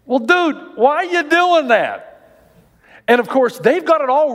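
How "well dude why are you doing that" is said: incredulous thought. Retold or imitated. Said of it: "and you're thinking".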